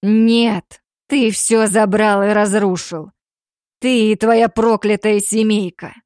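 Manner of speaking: loud, slow bitter outburst; raging. Acted. Damir raging at the Grizzly family, loud. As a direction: pour out all the hatred. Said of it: "Ярость захлестнула его".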